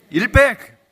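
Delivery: loud, high punch on the answer; triumphant reveal. Acted. Preacher reveals the coin to the congregation, loud and high. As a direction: slam the punchline home.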